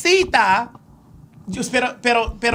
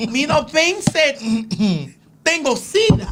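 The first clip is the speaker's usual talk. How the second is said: laughing through the words; 4 semitones higher than usual. Real, not acted. Joking in broken Spanish, laughing.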